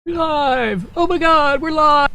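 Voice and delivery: high squeaky excited voice. Acted. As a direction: squeak it out like a cartoon. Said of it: "That's a very strange voice you made there".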